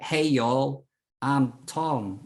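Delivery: a lightly put-on American accent, casual greeting; mocking the American who rewrote his story, in a hint of an American accent. Retelling how a podcaster faked his voice, mild mock American accent. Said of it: "which is, like, an American accent".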